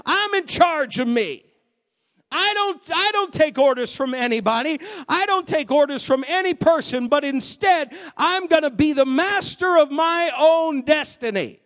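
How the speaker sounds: a hint of smug defiance; mock defiant boast. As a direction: mimic a self-important rebel, lightly. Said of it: "the philosophy of the age says".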